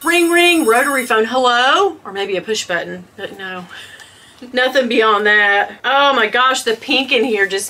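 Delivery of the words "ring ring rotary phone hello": high sing-out ring, then questioning hello; mock phone call. Recalling the days before online groups, higher mock phone call. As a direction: imitate a ringing phone and someone answering. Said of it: "We were like".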